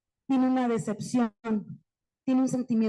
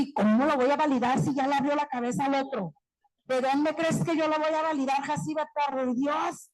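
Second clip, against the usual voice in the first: lightly imitated outraged colleague, a bit fast; mock protest from a fed-up teacher; indignant teacher; 2 semitones higher than usual. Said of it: "Dije a una maestra". (maestra indignada, imitada a la ligera)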